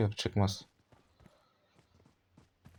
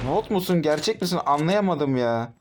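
incredulous disbelief; 5 semitones higher than usual. Real, not acted. Disbelief after being outplayed.

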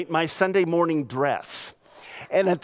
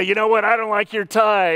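mock complaint; 4 semitones higher, 3 dB louder than usual. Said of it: "that guy would come up and say".

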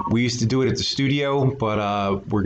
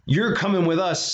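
higher pirate captain voice; Braidbeard; 7 semitones higher than usual. A narrator's reading. Captain telling the boy he's coming along. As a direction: claim him like a bossy captain. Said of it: "said Braidbeard told me".

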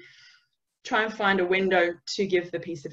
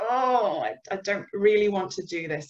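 reluctant dread. Acted. Someone about to go into a difficult conversation, reluctant. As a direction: voice not really wanting to do it. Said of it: "you're about to go in and go".

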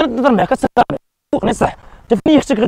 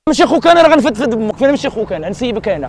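mock angry threats; 4 semitones higher than usual. Pranker threatening the stranger over his sister, mock anger. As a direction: bluster like a madman threatening.

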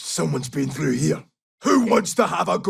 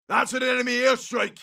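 higher-pitched battlefield shout; urgent enemy warning; 6 semitones higher than usual. Acted. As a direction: alert the squad to incoming danger.

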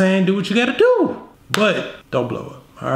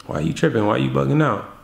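calm and cool; faster than usual. Shown as a demonstration. Boyfriend to girlfriend, calm relaxed dismissal. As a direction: shrug it off coolly. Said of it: "How are you gonna respond?".

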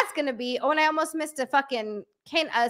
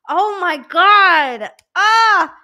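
emotional joy; 5 semitones higher, 10 dB louder, much slower than usual. Real, not acted. Moved by the finished build.

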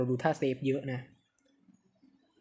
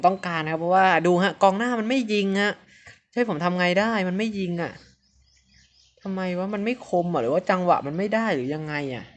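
บ่นหัวเสีย; 5 semitones higher, 6 dB louder than usual. Real, not acted. บ่นกองหน้าไม่ยิงประตู.

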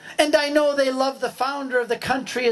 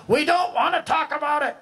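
shouted refusal; 6 semitones higher than usual. Acted. Raft people answer back shouting.

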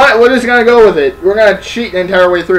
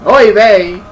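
mock Jewish oy vey; 3 semitones higher, 4 dB louder than usual. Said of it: "Hebrew people sound".

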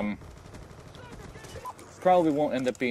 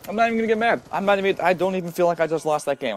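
ironic outburst; 6 semitones higher, 5 dB louder, faster than usual. Real, not acted. Ironic after losing.

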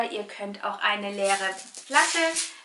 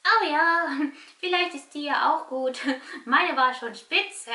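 puppet chuckling, cheeky; laughing puppet; 5 semitones higher, 5 dB louder, slower than usual. Pretend. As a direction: giggle through it as the puppet. Puppet teases host, laughing.

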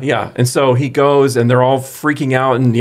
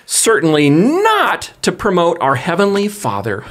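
dramatic voice; 4 semitones higher than usual. Pretend. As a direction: read it like a heartfelt plea. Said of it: "he is gonna read it for us in a dramatic voice".

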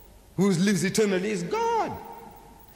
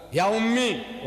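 "Ya ummi" called out higher, as an exclamation; opening exclamation; 4 semitones higher, much slower than usual. Shown as a demonstration. Showing how Arabic begins, "Ya ummi" exclaimed. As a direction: hit "Ya ummi" as a vocative cry. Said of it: "We begin with an exclamation".

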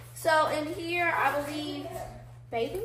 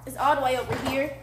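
muffled through a face covering; through a balaclava; 2 semitones lower than usual. Real, not acted. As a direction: talk through a scarf over the mouth. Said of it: "this scarf is making me".

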